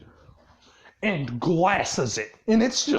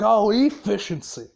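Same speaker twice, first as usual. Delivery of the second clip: sarcastically throwing the word back; mock incredulous echo. Boss echoing the Pox's excuse back, mock incredulous. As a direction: repeat it as if it's an absurd excuse.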